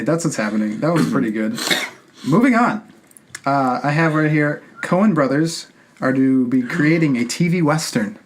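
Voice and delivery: normal talking voice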